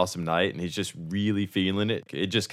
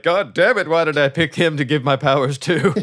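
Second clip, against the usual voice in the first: much higher and louder, hammed-up fury; mock furious wizard; 7 semitones higher, 6 dB louder than usual. Fading wizard cursing his choice, hammed-up angry yell. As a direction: rant at the kid he wrongly chose. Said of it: "and he's like".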